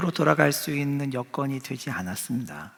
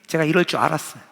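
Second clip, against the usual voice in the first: angry complaint; 2 semitones higher, 3 dB louder than usual. Retold or imitated. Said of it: "이렇게 말하고 있는 거예요".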